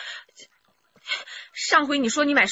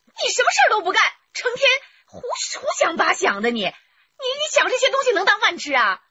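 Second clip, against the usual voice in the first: shrill scolding, higher pitched; 5 semitones higher than usual. Acted. Wife scolds her idle husband, shrill and exasperated. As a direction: nag him for daydreaming.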